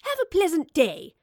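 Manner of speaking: high, loud sing-out greeting; cheery call, pitched well up; chiming cheerfully. Acted. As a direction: chime it out to a passer-by. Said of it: "she chimed".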